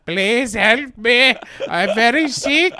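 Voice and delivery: mock whine. Injured Santiago whine.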